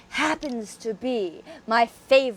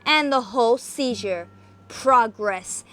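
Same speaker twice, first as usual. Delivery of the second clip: dramatic reading. A narrator's reading. Reading Poe aloud to viewers in isolation, dramatic narration. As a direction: read it like a gothic tale by candlelight. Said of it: "we shall commence with a dramatic reading".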